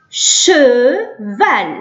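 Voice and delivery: Cheval in two held syllables, long "sh" start; drawn-out sounding out. Shown as a demonstration. Teacher giving pupils an example word, drawn-out sounding out. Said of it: "ننطقه كالشين في العربية".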